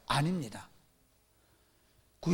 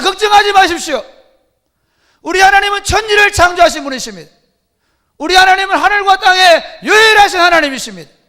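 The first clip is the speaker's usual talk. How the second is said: much higher, much louder triumphant shouting; a showman prophet rallying the temple crowd; false prophet preaching; 7 semitones higher, 15 dB louder than usual. Acted. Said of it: "선지자가 딱 성전했습니다 거룩한 옷을 입고".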